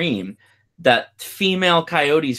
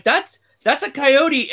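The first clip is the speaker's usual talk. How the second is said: higher, slowly drawn-out realization; retelling how he told his wife it was a coyote; retold disbelief; 13 semitones higher, slower than usual. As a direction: stretch it out, stunned. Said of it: "I'm like".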